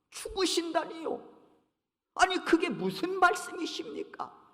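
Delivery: a touch of Peter's shocked protest. Retold or imitated. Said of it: "항변했다고 했습니다".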